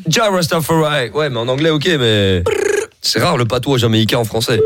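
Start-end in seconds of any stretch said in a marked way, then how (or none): 0.1-1.1 put-on slow, drawn-out Jamaican accent. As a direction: say it like a Jamaican rasta. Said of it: "c'est parler avec l'accent jamaïcain".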